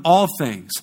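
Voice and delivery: "all" stretched out with emphasis; stress on all. Real, not acted. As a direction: lean firmly on "all". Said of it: "I can't emphasize that word all enough".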